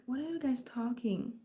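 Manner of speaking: normal talking voice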